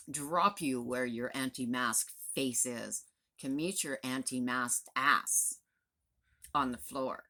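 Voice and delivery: slow menacing threat. Real, not acted. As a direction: lean in and spell out every word of the threat.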